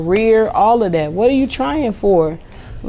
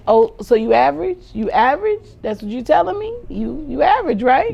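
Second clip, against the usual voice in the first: mocking, higher rising questions; teasing sarcasm at a child; sarcastic; 5 semitones higher than usual. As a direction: needle the kid with fake surprise. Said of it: "I get real sarcastic with my kids".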